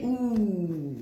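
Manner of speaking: long, falling reacting "ooh"; drawn-out "ooh". Real, not acted. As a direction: let an ooh slide out slowly. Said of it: "excusez-moi pour les ouh".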